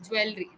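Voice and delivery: "jewelry" as "joo-EL-ree". Shown as a demonstration. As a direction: say "jewelry" with a full "el". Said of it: "Usually what they pronounce it as".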